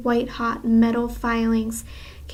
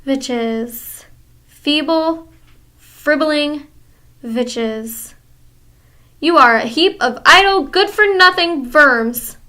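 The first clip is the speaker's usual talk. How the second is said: high, loud foreign witch voice, dripping contempt; scornful witch; 3 semitones higher, 5 dB louder, slower than usual. Acted. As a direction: sneer at them like the Grand High Witch. Grand High Witch scolding audience.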